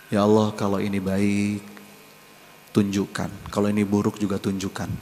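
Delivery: softly voiced humble supplication; quiet prayer. Preacher voicing a proper prayer to Allah, softly. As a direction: pray it softly, asking to be shown.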